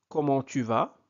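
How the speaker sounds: gentle question rise into "vas"; questioning intonation. Shown as a demonstration. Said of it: "Avec intonation".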